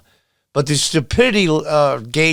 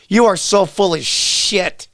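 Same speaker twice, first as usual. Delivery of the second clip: slow, pointed scorn, a bit higher; indignant; 4 semitones higher, slower than usual. Real, not acted. Vlogger scolding Pelosi on camera, slow disgusted scorn. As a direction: spit it out slowly in disgust. Angry rant.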